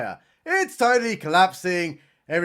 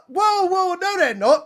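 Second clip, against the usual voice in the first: high, louder laughing whoa; 11 semitones higher, 4 dB louder than usual. Real, not acted. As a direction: laugh through the correction. Laughing mock correction.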